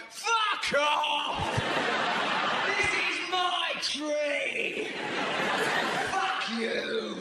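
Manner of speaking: territorial bird yelling abuse; drawn-out, hammed-up angry shout; aggressive shouting. Bird warning rivals off its tree, aggressive shouting. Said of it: "aggressive shouting".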